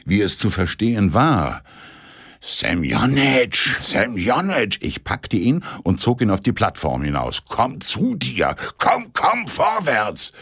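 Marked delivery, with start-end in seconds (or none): 2.4-4.8 calling out. A narrator's reading. Narrator calling the undressing conductor. 7.5-10.3 urgent coaxing. A narrator's reading. Dragging drunk conductor out.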